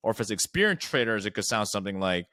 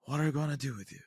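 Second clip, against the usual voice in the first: teasing, mock-shocked and much higher; playful; 4 semitones higher, faster than usual. Shown as a demonstration. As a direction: playfully scold the lead to get them talking. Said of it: "So something playful to kinda get them open up".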